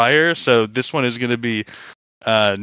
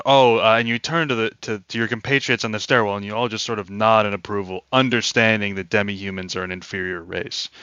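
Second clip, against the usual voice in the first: GM narration; 3 semitones lower, faster than usual. A narrator's reading. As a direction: settle into storytelling mode for the table. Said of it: "I, like, narrated".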